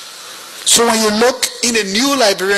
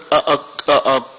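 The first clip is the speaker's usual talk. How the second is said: ordinary talk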